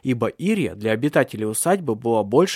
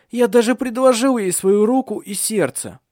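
higher and louder complaint; raised protest; 9 semitones higher, 7 dB louder than usual. A narrator's reading. Son protesting to his father, loud. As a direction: insist on it loudly.

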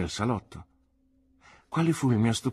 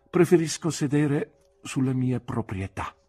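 firm aunt; 5 semitones higher, 3 dB louder than usual. A narrator's reading. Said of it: "rispose mia zia".

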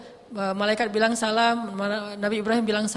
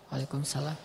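much softer, swallowed return greeting; muffled reply; 9 semitones lower, 11 dB quieter than usual. Shown as a demonstration. Host answers a visiting ustadz's salam under his breath. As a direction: answer so the guest can't hear. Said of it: "Jangan dijawab jelas-jelas".

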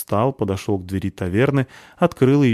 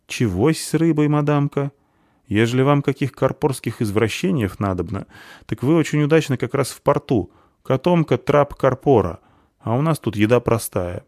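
higher, louder rustic tavern-woman voice; half-orc waitress, brusque; 6 semitones higher, 4 dB louder than usual. A narrator's reading. Half-orc waitress baffled by a fancy order, brusquely incredulous. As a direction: play a puzzled, brash waitress.

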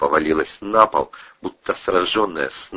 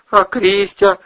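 anxious question; 13 semitones higher, 7 dB louder, slower than usual. Acted. Husband waking, asking.

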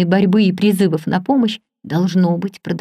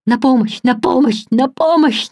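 rising, desperate calls for help, each louder; strangled cry for help; 5 semitones higher, 4 dB louder than usual. A narrator's reading. Muffled man upstairs crying for help, desperately. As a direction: cry out for help from behind a wall, choking. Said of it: "Придушенный голос быстро трижды выкрикнул".

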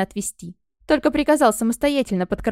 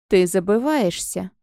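cold rebuke; 2 semitones lower, slower than usual. Acted. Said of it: "холодно ответил мне жрец".

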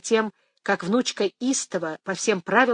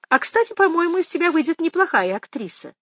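put-on old grandmother voice; 10 semitones higher, 4 dB louder than usual.

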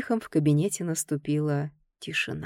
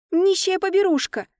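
hissing; 12 semitones higher, 4 dB louder than usual. Acted. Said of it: "прошипела Софи".

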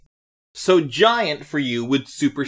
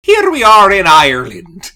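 announcer; 4 semitones higher, 12 dB louder than usual. Acted. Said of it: "break the tension with that".

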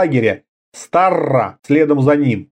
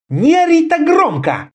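higher, sharp order in a woman's voice; commanding; 14 semitones higher than usual. A narrator's reading. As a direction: cut him off with a command. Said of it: "приказала Карела".

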